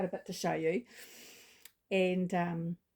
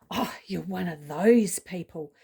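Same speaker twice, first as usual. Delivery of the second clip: mock angry; 5 dB louder, slower than usual. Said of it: "she had a really angry voice".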